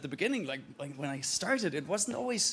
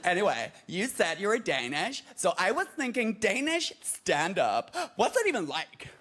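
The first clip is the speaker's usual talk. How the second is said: chatty mock American fan; American accent. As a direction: quiz him in an exaggerated American accent. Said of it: "Totally American".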